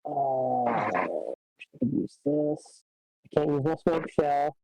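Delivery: sounds like talking underwater; muffled, as if submerged. Real, not acted. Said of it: "Really muffled".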